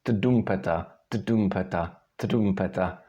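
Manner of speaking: tdumpeta with the D loosening each time; gradual D to R. Shown as a demonstration. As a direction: repeat tdumpeta, relaxing D towards R. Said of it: "gradually you get the right sound".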